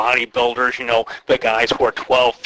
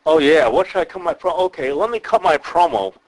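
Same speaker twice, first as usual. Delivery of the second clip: mock dopey wrestler; 5 semitones higher, 3 dB louder than usual. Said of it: "why are we talking like that?".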